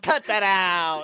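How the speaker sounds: can't keep a straight face; scolding that dissolves into giggles; laughing scold. Real, not acted. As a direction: repeat it slowly through real laughter. Repeats scolding, breaking into laughter.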